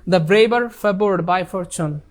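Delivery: very slow, word by word; a teacher slowly dictating the correct answer; slow dictation. Shown as a demonstration. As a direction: lay out the answer one word at a time. Teacher gives answer sentence.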